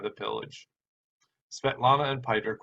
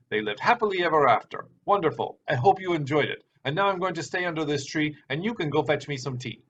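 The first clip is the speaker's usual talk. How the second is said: higher, louder huffy uncle rattling off the ending; mock tirade; 3 semitones higher, 4 dB louder than usual. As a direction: rush the ending out of wounded pride, hammed-up. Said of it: "brought Piter's tirade to a halt".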